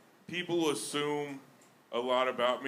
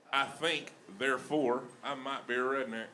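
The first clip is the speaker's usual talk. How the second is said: lightly played-up Southern philosopher; measured pauses in a mild Southern twang; Southern-accented Descartes. Comic delivering philosophy to a crowd, Southern accent. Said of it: "The best with Southern flair is philosophy".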